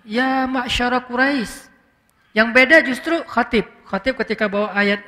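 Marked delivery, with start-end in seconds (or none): 0.0-1.7 slow, gentle address to a crowd; courteous, measured call. Shown as a demonstration. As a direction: summon them politely, without raising the voice. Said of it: "Makanya Nabi ngomongnya santun, pelan".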